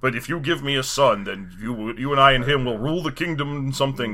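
lightly voiced grave villain; a low, solemn offer trailing into mumble; hint of a stately dark lord; Christopher Lee. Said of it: "he's kind of a Christopher Lee type".

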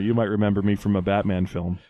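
low, understated star voice; a hint of a washed-up actor; Val Kilmer impression. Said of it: "doing an impression of him".

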